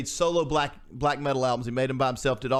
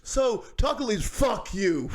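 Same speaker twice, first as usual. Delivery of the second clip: mock interviewer cut off; 6 semitones higher than usual. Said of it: "the guy, he's like".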